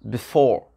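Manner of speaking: "Before" with quick first vowel and strong "FORE"; short I, stressed ending. Shown as a demonstration. Teacher demonstrating the short I, second syllable stressed. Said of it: "le I va être un petit I court".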